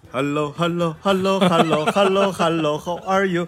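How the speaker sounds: put-on affected, show-off English accent. Retelling how a café customer answers the phone: imitating affected english accent. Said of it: "有点装的那种英语".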